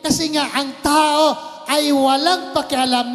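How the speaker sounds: slow, drawn-out sermon emphasis; emphatic preaching. Acted. Preacher driving home man's innocence, slow and emphatic. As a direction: lean on each phrase slowly.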